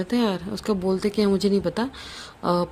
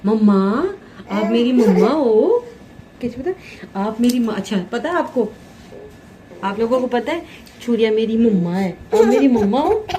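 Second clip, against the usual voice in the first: voicing the baby; 2 semitones higher than usual. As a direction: speak as the baby to mummy. Voicing baby's words.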